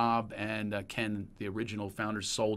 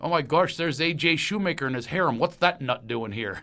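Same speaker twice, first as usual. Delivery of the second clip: put-on Pennsylvania accent; 4 semitones higher, 3 dB louder than usual. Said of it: "that's the Pennsylvania accent".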